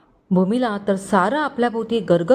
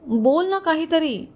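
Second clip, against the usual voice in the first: slow, higher plea with ना drawn out; tearful pleading; 8 semitones higher, slower than usual. A narrator's reading. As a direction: drag out the ना as she begs him, near tears. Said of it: "ती रडत त्याच्याशी बोलण्याचा प्रयत्न".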